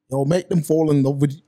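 failed attempt at imitating the influencer's accent; badly faked accent of a man coaching others; Andrew Tate's accent. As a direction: have a half-hearted go at mimicking his accent. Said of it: "I can't even do the accent".

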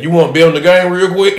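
mock loudmouth asking too loud; retelling a stranger talking loud during a movie, lightly loud; loud talker. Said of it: "Like, loud motherfucker".

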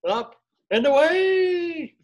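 high, loud, drawn-out takeoff call; superhero cry. Acted. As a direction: launch into a cartoon hero's cheer. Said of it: "and they're going up".

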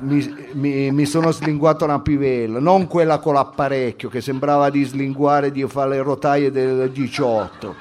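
lightly voiced slangy student; brash student character. Student telling of a concert kiss, brash character. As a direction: boast like a cheeky street kid. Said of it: "Devo entrare nel personaggio".

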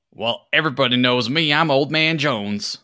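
put-on high, hearty old-timer boasting; old man voice. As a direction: announce yourself like the town's famous old geezer. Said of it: "And the man goes".

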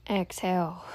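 calm meditation guide with long pauses; guided meditation. Real, not acted. Host guiding listeners to tune out noise and breathe, meditative.

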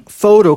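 photo, fowrow, stressed and loud. Shown as a demonstration. Teacher modelling photo with an F sound. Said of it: "pronuncia-se com som de F".

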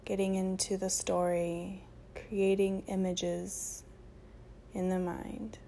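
unhurried meditation voice with long pauses; guided meditation. Acted. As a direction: guide them gently into breath and stillness.

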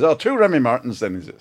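lightly imitated Northern Irish lilt; a hint of a Northern Irish barman asking. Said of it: "and he says".

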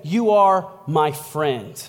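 slow, sincere reassurance; measured, tender affirmation; Jesus. Acted. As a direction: say it deliberately, as a loving promise. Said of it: "He said".

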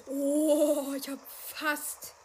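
"fast" drawn out and loud, slow; big exasperated stress on "fast". Real, not acted. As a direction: lean hard on "fast". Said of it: "Die Betonung liegt hier auf fast".

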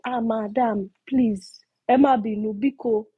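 mildly hammed-up begging; imitated pleading woman. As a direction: beg madam urgently, acting her out. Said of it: "One woman was now doing".

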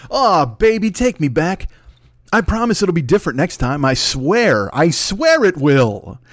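high, wheedling plea that drags out slowly at the end; pleading boyfriend. Acted. Abusive podcast boyfriend begs his listeners, pleading. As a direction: beg them to take you back.

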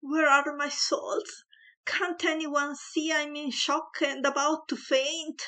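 tearful yell. A narrator's reading. Mother yelling tearfully for her salts, hammed-up distress. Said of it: "yelled tearfully".

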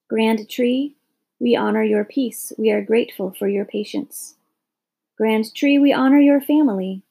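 a gentle, reverent chant to the fallen oak; solemn prayer. A narrator's reading. Tree-honoring prayer.

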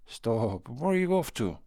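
a sudden commanding call; sharp command. Acted. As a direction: stop him, rising on the question. Ghost grabs fleeing watchman.

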